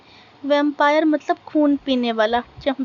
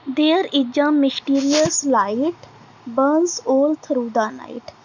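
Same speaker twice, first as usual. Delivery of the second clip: very slow, deliberate recitation, word by word; slow poem reading; much slower than usual. Acted. Teacher reading a poem line to students, slow recitation. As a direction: read each line out slowly for the class to follow.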